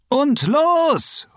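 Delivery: high bright shout to kick off the game; calling out the start. Acted. Anne starts the football match for the kids, high excited shout. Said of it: "ruft Anne Hammerfuß".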